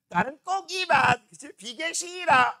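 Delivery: slow whiny imitation of a picky student; a student refusing fatty meat, slow and whiny; mock picky kid. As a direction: play the kid who won't eat fat, drawn out.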